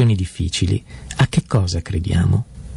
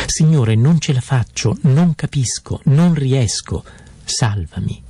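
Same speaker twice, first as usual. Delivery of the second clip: higher, pleading cry that sinks to a hush at the end; desperate plea; 4 semitones higher than usual. Acted. Peter sinking, crying out to Jesus: desperate plea. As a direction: beg for rescue as if going under. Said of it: "Pietro che grida a Gesù".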